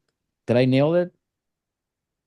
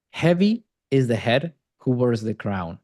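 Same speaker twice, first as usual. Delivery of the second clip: weighty quote. Shown as a demonstration. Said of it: "You just had to quote Shakespeare".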